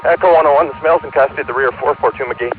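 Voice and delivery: breathless custody report. Real, not acted. Unit reports suspect in custody.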